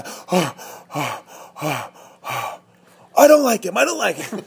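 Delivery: put-on high-pitched little boy's voice after tickling; giggling toddler. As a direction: squeal it out like a tickled child. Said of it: "laugh hysterically".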